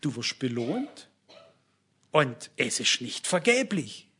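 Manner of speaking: slow, measured reassurance, lightly acted; a hint of God's voice, slow and deliberate; lightly voiced God. God answering the devil's discouragement, slow quiet assurance. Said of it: "Aber Gott sagt was ganz anderes".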